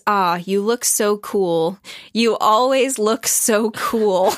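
slow, lightly voiced dreamy Daisy; drawn-out mock swoon; a hint of a swooning southern belle; breathy Daisy quote. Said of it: "She looks down and says".

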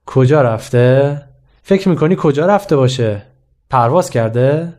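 teacher mockingly repeating the student's excuse back at him; sarcastic. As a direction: drag out "کجا رفته؟" with mild teacherly sarcasm.

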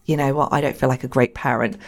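low, deflated admission; a touch of weary self-doubt; discouraged parent. Pretend. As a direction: act a parent feeling mildly defeated. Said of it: "having a bit of a moment".

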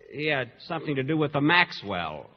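chuckling through the words; laughing. Real, not acted. The speaker chuckling over his Maxwell pun. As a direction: laugh at your own weak pun.

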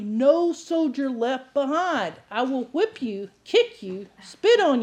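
slow, stern and deliberate; meanest voice. Shown as a demonstration. Preacher voicing her own stern push to congregation, slow and firm. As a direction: lay each word down hard. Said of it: "It's the meanest voice in your repertoire".

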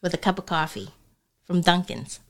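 lightly put-on Boston accent. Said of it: "how would y'all say it?".

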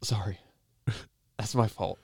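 hushed, whispered apology; sheepish whisper. Acted. Actor apologises for interrupting the director, sheepish whisper. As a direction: whisper it under your breath.

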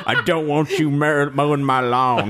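high, slow put-on voice with a laugh; slow, high, laughing impression of a TV character; mock character quote. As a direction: ham up the aggrieved neighbour, laughing through it. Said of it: "apparently that was so funny".

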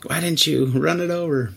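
lightly voiced redneck urging; mock hostile. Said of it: "people you expect, like".

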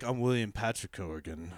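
self-important tone. Retold or imitated. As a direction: announce your full name with gravity. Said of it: "now he's all like".

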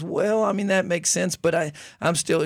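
a hint of a doubtful frog, lifting the voice up.

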